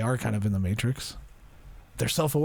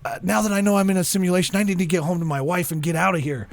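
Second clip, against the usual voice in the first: mildly panicked, higher and hurried; freaking out; 5 semitones higher than usual. Retold or imitated. AI character learning he's in a simulation, mock freaking out. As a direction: imitate a rattled character rushing to escape. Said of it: "they started freaking out".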